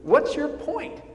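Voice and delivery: a touch of a mock scoff. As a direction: shrug it off like it's old news. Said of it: "almost scoffing at them".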